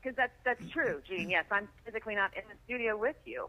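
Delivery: calling in over a phone line; tinny phone-line voice. Real, not acted. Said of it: "you sound like you're on a phone line".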